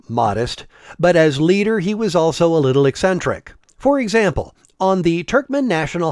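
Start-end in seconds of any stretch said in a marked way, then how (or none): 0.1-0.7 low, dry ironic "modest"; sarcastic air quotes. Retold or imitated. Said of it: "Well, I say, quote-unquote".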